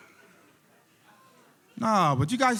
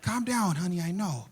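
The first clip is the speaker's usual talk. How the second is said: soothing mom; 3 semitones higher than usual. Acted. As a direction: soothe him gently. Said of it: "the mom walks up".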